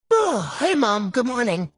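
a hint of granny up high; grandma-like voice. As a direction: greet in a slightly grandma-like voice. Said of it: "why do you sound like a grandma".

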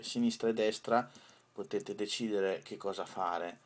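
usual speaking voice

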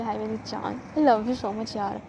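soft, slow loving croon; tender cooing. Retold or imitated. Boyfriend cooing to his girlfriend, soft and slow. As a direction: stretch it out slowly, lovingly.

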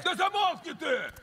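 squabbling. Acted. Crew quarrelling, telling each other shut up.

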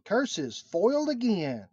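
high, hammy cartoon villain; mustache twirling villain. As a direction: curse it like a melodrama baddie. Foil pun as cartoon villain.

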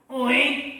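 mildly scornful disbelief; jeering question with a hint of laughter; mocking Goliath. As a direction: sneer lightly at a little challenger. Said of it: "더 비웃기 시작했어요".

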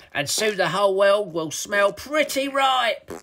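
high, gloating villain troll; gleeful toilet troll. A narrator's reading. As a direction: boast in rhyme as a mischievous troll. Villain troll introduces himself in rhyme.

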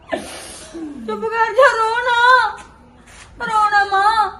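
tearful comforting. Acted. Daughter consoling her crying mother.

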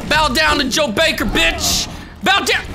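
loud, gloating taunt at the beaten foe; mocking taunt. Real, not acted. Gamer taunting the boss character, in a loud gloating yell. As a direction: lord it over him, yell it down at him. Taunting the enemy mid-fight.

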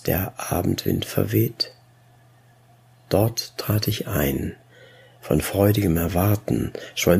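measured, earnest verse reading; restrained poetry reading; poem recitation. A narrator's reading. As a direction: recite with pauses at each phrase.

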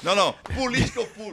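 amused no to politics; laughing dodge. Real, not acted. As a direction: laugh it off quickly. Laughs while dodging politics.

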